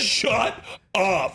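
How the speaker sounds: demonstrating a gobsmacked response; mock disbelief. Shown as a demonstration. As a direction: stretch both words in feigned astonishment. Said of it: "you're gonna go".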